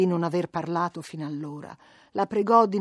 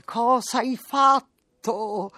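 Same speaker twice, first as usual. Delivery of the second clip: dismayed question; 6 semitones higher, 3 dB louder, much slower than usual. A narrator's reading. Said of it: "Voleva dirle".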